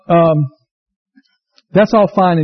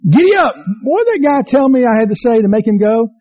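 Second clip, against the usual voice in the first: frustrated rider; 4 semitones higher than usual. Retold or imitated. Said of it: "horse won't move".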